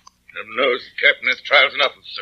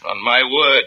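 normal talking voice

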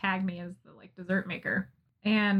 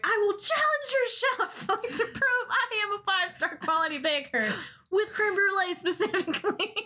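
mock grand challenge; 11 semitones higher than usual. To the restaurant's chef, pretending to challenge him, hammed-up high boast. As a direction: throw down the gauntlet like a pompous baker.

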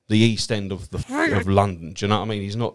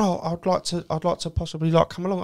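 mock wheedling; 9 semitones higher than usual. The stranger asking to come to the gig, higher wheedling voice. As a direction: plead to be let in.

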